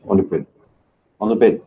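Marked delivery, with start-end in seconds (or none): 1.2-1.6 much higher, louder squeal at the dog; squeaky dog voice. Real, not acted. Streamer scolding his dog on the bed, in a high squeal. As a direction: jump way up high like talking to a pet.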